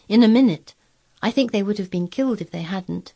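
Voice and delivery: lightly voiced girl telling a tale; hint of an earnest child storyteller.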